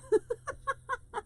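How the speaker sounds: high little giggle; real high-pitched laugh. Real, not acted. Host looking for her friend in chat, giggling.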